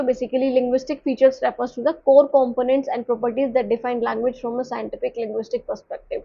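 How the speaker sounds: slow, careful read-aloud of a textbook definition; slow slide reading. Acted. Teacher reads the English definition aloud slowly to the class.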